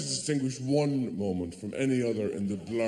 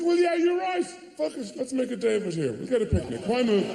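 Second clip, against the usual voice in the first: giving in; 9 semitones higher than usual. Retold or imitated. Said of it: "And you think".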